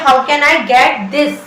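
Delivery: slow, deliberate; slow teaching demo. Shown as a demonstration. Teacher modelling the question slowly. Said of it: "English में बोलिए".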